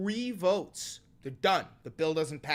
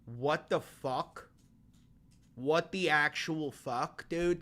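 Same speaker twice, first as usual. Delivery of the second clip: slow, drawn-out what the fuck; slowly spelling out his shock at the story; stunned disbelief; slower than usual. Real, not acted. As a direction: drag each word out in utter disbelief. Stunned reaction to porn app.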